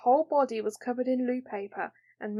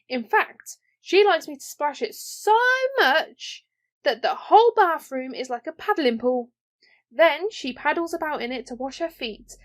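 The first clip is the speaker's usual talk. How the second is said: a hint of a proud little princess; lightly voiced princess; 3 semitones higher, 4 dB louder than usual. Mirabel telling Ellen about her father's beard, proud princess. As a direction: boast as if it's obvious.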